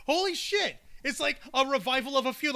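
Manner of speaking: loud, high and hyped; excited loud. Real, not acted. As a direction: hype it up, shouting. Excited about feud.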